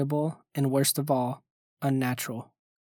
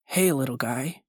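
cheery and mellow. Acted. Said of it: "The cheery voice ... soft and mellow".

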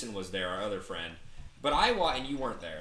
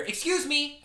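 high-pitched call for attention; imitated calling out; 12 semitones higher, slower than usual. Woman calls out to him.

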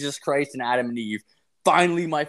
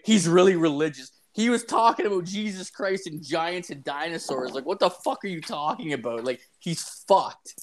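incredulous echo; 4 semitones higher than usual. Retold or imitated. Boyfriend firing the girlfriend's excuse back at her, incredulous. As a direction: throw her words back in disbelief.

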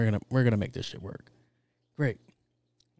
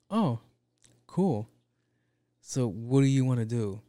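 eager executive; 4 dB louder than usual. Pretend. Executive humoring a pop star's pitch, lightly upbeat. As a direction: play the keen studio suit, mildly bright.

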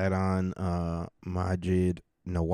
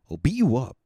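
higher, louder repeat of the threat; louder mock threat; 7 semitones higher, 7 dB louder than usual.

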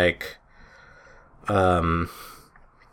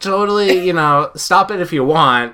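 higher, lightly voiced teen girl pleading; mock British girl; 8 semitones higher, 4 dB louder than usual. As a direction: play the girl trying to stop the fight. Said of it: "Where'd the accent go".

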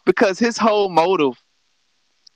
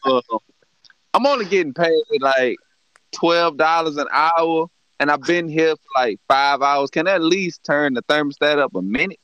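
henchman complaining; 5 semitones lower than usual. Retold or imitated. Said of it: "I'm like".

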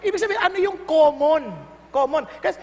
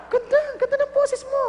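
fake praise; 9 semitones higher than usual. False praise to bad singer.

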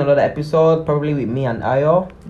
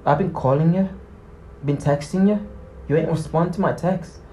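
aggressive demand; 3 semitones higher, 5 dB quieter than usual. Shown as a demonstration. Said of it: "barge into someone's space and tell them".

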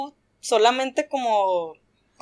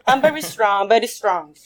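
put-on heavy Russian accent, louder and boastful; mock Russian strongman; 5 dB louder than usual. Belarusian guy bragging to her, louder mock Russian accent. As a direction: show off your bicep in thick Russian English. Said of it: "me señalaba así como su gato".

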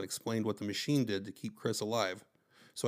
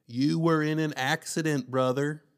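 slow shouting; 5 semitones higher, 6 dB louder, slower than usual. A narrator's reading. Luke shouts slowly at Chris.

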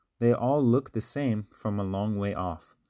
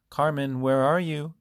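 higher, louder calling across the house; 6 semitones higher, 3 dB louder than usual. A narrator's reading. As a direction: call for your sister. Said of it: "Anna called".

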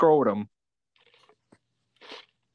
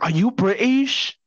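imitated customers' question; 5 semitones higher than usual. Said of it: "People are like".

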